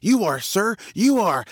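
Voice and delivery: high, deferential monkey reply; answering monkey. Acted. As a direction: answer the lion as a submissive monkey. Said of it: "The monkey says".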